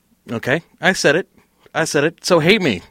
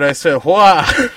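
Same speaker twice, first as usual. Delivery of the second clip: laughing; slower than usual. Real, not acted. Teasing over a bleepable word.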